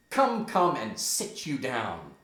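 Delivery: firm acted order, loud on the opening; mildly aggressive. Hamlet approaches Gertrude to push her down, mildly aggressive. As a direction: press her with measured emphasis. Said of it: "in a rather aggressive manner".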